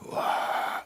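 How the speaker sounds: toned-down, voiceless "wah"; half-voiced mock holler; imitated shout. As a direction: mimic a second shout without full voice. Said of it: "You do another one".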